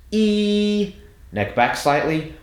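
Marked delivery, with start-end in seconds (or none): 0.1-0.9 "E" held long on a high, level note; drill vowel demo. Shown as a demonstration. Coach shows the middle-of-mouth sound, high held "E". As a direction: sustain "E" high and steady. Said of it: "you're gonna go".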